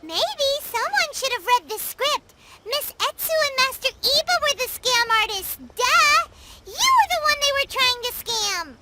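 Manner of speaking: very high, squeaky scolding; scornful correction. Acted. Telling the duped fraudmeister he was the mark, scornful. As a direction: set them straight in a very high-pitched voice.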